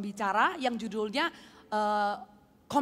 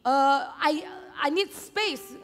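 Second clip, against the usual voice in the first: mild mock anger; 5 semitones higher than usual. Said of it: "Dia marah-marah gitu loh".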